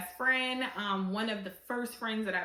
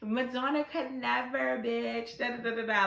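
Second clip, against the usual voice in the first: imitating Marlo; 4 semitones higher than usual. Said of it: "that's how Marlo was".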